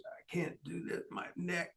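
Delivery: breathy whisper of an injured man. Retold or imitated. Injured wrestler on the mat whispering to his partner in pain. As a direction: barely voice it, as if hurt. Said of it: "He said".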